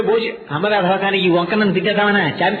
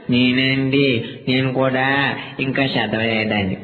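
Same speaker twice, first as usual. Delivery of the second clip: put-on timid kid; 6 semitones lower, much slower than usual.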